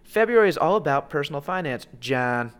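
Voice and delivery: lightly imitated robotic announcement; machine voice. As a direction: read it like a machine, name tacked on. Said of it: "like, it's the machine voice".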